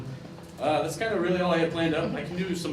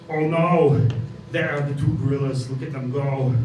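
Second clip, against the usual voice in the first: loud, hammed-up action-star nature host; Arnold Schwarzenegger; 3 semitones lower, 5 dB louder than usual. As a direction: boom out the wildlife commentary like a muscle-bound star. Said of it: "hosted by Arnold Schwarzenegger".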